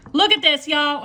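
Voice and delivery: a loud burst of delight at the slice; excited reveal. Real, not acted. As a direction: call them over to see. Showing the cut slice.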